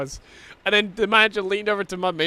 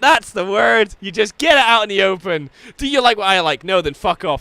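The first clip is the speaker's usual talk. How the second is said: louder, punchy, blunt; emphatic agreement; 3 semitones higher, 6 dB louder than usual. Retold or imitated. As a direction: slam the point home cheerfully. Manager voiced emphatically.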